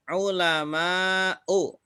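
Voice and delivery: ULAMA'U very slowly, glottal stop before final U; model reading. Shown as a demonstration. Teacher gives another example, slow careful reading of ulama'u. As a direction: stretch "ulama'u", long A, then a separate U. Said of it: "Contohnya lagi".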